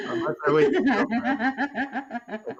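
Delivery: high, loud, talking through real laughter; laughing. Real, not acted. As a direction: laugh helplessly while agreeing. Player laughing along with game master.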